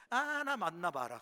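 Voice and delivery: a loud, slow, cheeky taunt. Retold or imitated. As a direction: dare her to hit you, drawn out. Taunting his mother while dodging stones.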